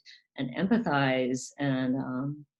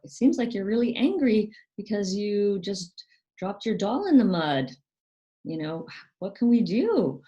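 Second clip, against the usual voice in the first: caring parent; 6 semitones higher, 3 dB louder than usual. Retold or imitated. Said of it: "going to the child and saying".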